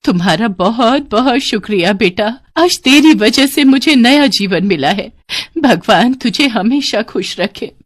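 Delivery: put-on healed old woman giving heartfelt thanks, slowing into a blessing; grateful old woman. (कृतज्ञ बुढ़िया का आशीर्वाद)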